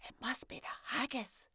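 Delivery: put-on high little girl, a touch of fright; frightened. A narrator's reading. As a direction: say it half to herself, scared.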